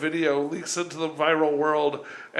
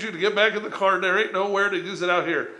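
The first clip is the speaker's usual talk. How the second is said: put-on Southern trooper accent; 2 semitones higher than usual. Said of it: "It's a good accent".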